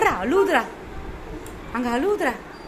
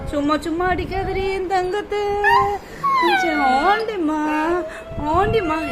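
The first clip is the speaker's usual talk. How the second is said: doting plea; 4 semitones higher than usual. Pretend. Begging someone not to hit the darling, doting plea. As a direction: plead sweetly on the little one's behalf.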